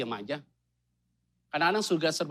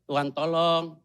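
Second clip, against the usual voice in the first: husband's prayer; 3 semitones lower than usual. Retold or imitated. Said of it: "suaminya kalau berdoa kan pasti to the point".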